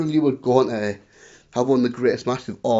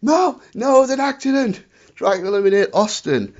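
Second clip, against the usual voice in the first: mock innocent protest; 8 semitones higher than usual. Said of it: "Owen was like".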